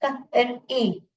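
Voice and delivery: क, र, ई sounded out one by one; phonics-style separate sounds क, र, ई; short i sound. Shown as a demonstration. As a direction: break it into क... र... ई. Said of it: "ई sound कराना है".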